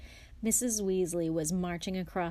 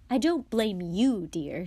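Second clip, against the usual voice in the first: louder opening, dropping to a kind close; reassuring; 2 semitones higher, 7 dB louder than usual. A narrator's reading. Mother assures Harry he is not blamed, reassuring. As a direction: reassure him firmly. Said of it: "she assured Harry".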